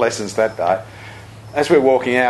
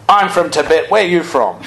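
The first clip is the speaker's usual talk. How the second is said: hearty mock-butcher call, lightly done; matching the butcher's energy; 4 semitones higher, 3 dB louder than usual. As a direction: throw the butcher's energy right back. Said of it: "in the same tone, in the same energy".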